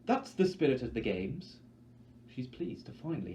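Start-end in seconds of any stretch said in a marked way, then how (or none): 0.1-1.6 gushing host. Acted. Effie still gushing.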